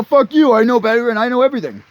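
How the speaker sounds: mock bratty comeback; defiant kid. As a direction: spit it back like a know-it-all brat. Mocking defiant kid's reply.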